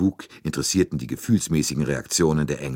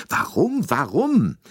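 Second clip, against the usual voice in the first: puzzled high why; 14 semitones higher, 5 dB louder, slower than usual. A narrator's reading. Narrator wonders why she lied.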